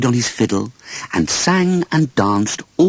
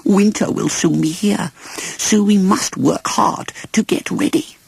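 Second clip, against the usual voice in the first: ants replying; 11 semitones higher than usual. A narrator's reading. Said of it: "they replied".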